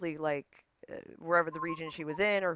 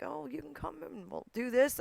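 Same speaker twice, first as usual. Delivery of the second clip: higher-pitched quoted friends; friends' breezy invite; 11 semitones higher than usual. Retold or imitated. UK friends urging her to visit, breezy invite. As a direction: imitate friends lightly, pitched up. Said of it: "they're like".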